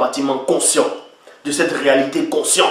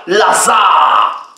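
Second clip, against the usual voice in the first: shout; 2 semitones higher, much slower than usual. Acted. Preacher calls Lazarus out, shouting. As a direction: shout his name across the tomb. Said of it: "il cria".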